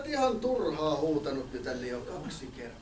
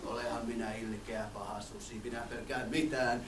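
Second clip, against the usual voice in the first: very soft, low wolf boast; lightly voiced wolf; 9 semitones lower, 9 dB quieter than usual. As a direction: purr it like a smug wolf.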